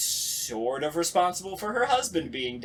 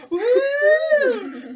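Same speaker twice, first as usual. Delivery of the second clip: high, loud laughing whoop; laughing woo; 12 dB louder than usual. Real, not acted. Actor relieved by the joke, a laughing loud woo.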